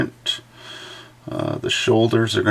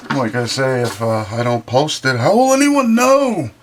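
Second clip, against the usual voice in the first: mock self-important; 5 semitones higher, 3 dB louder than usual. Joking about posting for Instagram.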